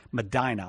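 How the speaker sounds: "Medina" repeated as meh-DYE-nah; local Ohio pronunciation. Shown as a demonstration. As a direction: try out "Medina" with a "dye" middle. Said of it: "All right, I'll remember that".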